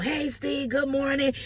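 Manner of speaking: high-pitched, over-bright morning hello; a caller's high, eager good morning; loud cheery greeting. Retold or imitated. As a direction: pump up a sunny wake-up call. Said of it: "calling him all loud".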